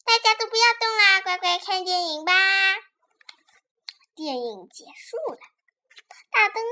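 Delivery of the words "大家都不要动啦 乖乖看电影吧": high, loud order to a crowd; raised-pitch projected command. Acted. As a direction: call out a firm instruction. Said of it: "命令道".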